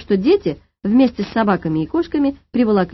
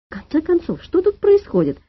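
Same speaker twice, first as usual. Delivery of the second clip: high-pitched exasperation; losing her temper; 8 semitones higher than usual. A narrator's reading. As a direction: demand an explanation, voice climbing high. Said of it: "окончательно вышла из себя дама". (выходя из себя)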